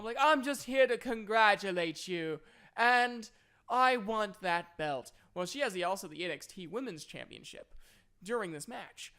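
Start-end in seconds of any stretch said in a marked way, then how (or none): 0.2-5.1 loud, high mock promo, slowing at the end; wrestling promo. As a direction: play a wrestler cutting a promo, punching each word. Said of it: "does a pretty decent promo".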